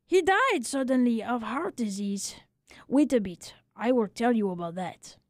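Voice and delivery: lightly voiced barber, rueful and philosophical; a hint of a kindly old Frenchman consoling a friend. Barber tells the news.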